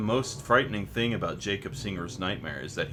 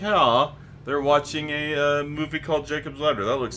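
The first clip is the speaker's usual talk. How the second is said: loud, high excited retelling; gushing with excitement; 7 semitones higher, 6 dB louder than usual. Real, not acted. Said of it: "I was very excited".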